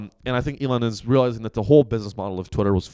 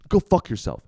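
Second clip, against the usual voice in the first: mocking Elon; 7 semitones higher than usual. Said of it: "That's what he says".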